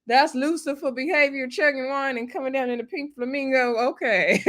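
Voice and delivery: put-on high, scandalised girlfriend tone; mock scandalised. Recapper quoting her reaction to Bria, high scandalised gossip. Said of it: "I was like".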